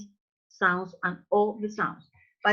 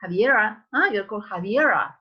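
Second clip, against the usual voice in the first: Javiera with an American R; an American guy trying out the name Javiera; Anglicized Javiera, American vowels; American accent; faster than usual. Acted. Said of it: "An American guy is gonna say".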